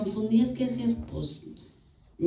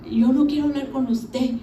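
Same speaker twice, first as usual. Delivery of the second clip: higher mock-petulant refusal; bratty; 5 semitones higher, 3 dB louder than usual. Daughter-in-law rejecting her father-in-law, retold brattiness. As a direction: play a spoiled girl shutting him out. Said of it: "yo era malcriada".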